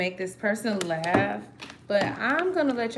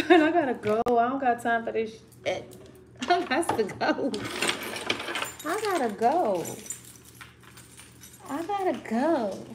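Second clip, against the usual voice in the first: frazzled hurry; 3 semitones higher than usual. Real, not acted. Rushing, fighting stuck cards.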